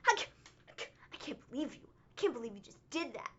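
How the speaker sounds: disgusted disbelief. Retold or imitated. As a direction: shake your head in disbelief. Retold host after the outburst.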